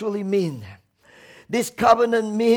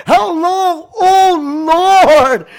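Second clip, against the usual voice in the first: loud, high, pleading call; crying out; 4 semitones higher, 7 dB louder, much slower than usual. Retold or imitated. Preacher again voicing David's loud cry. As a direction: call out to the Lord. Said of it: "David cried out and said".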